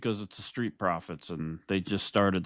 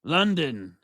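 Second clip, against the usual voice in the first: announcer-style answer; 3 semitones higher, much slower than usual. Pretend. Repeats grand answer to co-host.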